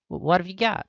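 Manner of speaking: high nervous voice. Acted. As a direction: squeak it out like a kid.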